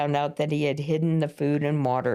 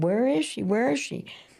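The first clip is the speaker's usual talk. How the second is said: acted distressed, upset, repeated, pitched-up delivery; 9 semitones higher than usual. Retelling asking the neighbor where she is, acting out being upset. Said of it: "I'm all upset and I'm going".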